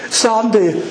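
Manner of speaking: lightly voiced Lord asking Sandy. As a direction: ask as the Lord would, searching. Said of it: "The Lord's speaking to you".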